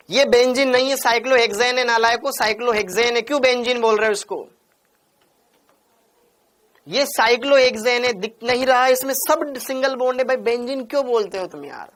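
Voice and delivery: exasperated scolding. Real, not acted. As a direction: scold the class over a repeated mistake. Exasperated teacher scolds students' repeated mistake.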